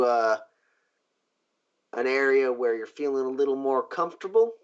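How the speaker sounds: measured offer with a hint of menace; lightly voiced genteel boss. Boss offering favors for a debt, lightly voiced.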